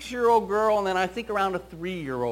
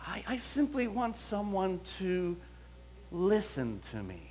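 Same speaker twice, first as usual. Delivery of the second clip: whisper; 7 dB quieter than usual. Pretend. Voicing the child's inner plea.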